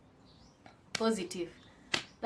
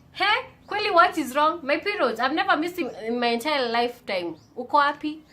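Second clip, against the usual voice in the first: panicked outcry; 6 semitones higher, 5 dB louder than usual. Retold or imitated. Panicked question to absent period.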